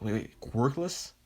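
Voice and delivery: slow, rising incredulous question; acted disbelief. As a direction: draw out the question as if stunned. Everyone reacts in disbelief.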